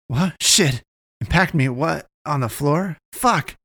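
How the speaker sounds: panicked outburst. Acted. Naomi panicking after the monster attack, shocked yelps. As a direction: blurt it out in shock, climbing to a yelp.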